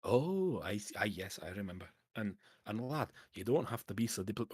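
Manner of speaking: lightly voiced, friendly Scottish dwarf; a hint of a chummy Scots dwarf. Dwarf recalls the adventurer's request, lightly voiced Scottish dwarf.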